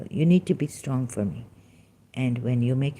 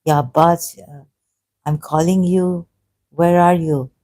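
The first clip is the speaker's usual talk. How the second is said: lightly voiced calling out; pleading child's call; 2 semitones higher, 7 dB louder than usual. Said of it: "Bibi Sakina is saying".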